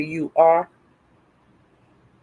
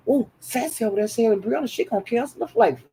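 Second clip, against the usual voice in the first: retold gossip; 3 semitones higher, 7 dB quieter, faster than usual. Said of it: "'Cause I was saying".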